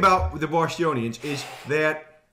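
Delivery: put-on Bostonian accent; lightly played Boston accent. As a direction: talk like a Bostonian. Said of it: "That there is perfect Boston accent".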